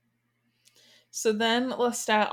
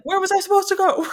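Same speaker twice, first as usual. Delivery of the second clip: high, fast, indignant protest; mock Lestat whine; 11 semitones higher, 5 dB louder, faster than usual. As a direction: throw it back at him, offended. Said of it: "Lestat's like".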